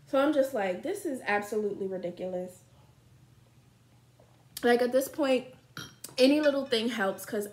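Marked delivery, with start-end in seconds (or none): 0.1-2.6 talking into wine glass; speaking between sips; drinking wine. Real, not acted. Seen 3: Wine glass held at lips throughout labelled words; lowered before.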